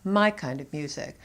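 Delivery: "my" leaned on, the rest lighter; stress on MY. Shown as a demonstration. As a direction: stress the word "my". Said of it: "stressing the personal pronoun my".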